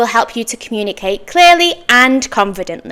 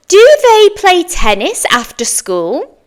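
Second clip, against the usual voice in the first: slow model question; 8 semitones higher than usual. Shown as a demonstration. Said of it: "Your turn".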